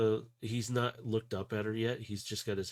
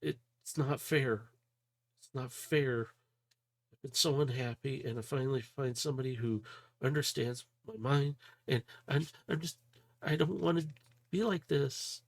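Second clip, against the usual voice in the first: high, broken pleading, stumbling over words; upset young voice fighting tears; distraught girl; 5 semitones higher than usual. Acted. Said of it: "she's just stumbling over her words".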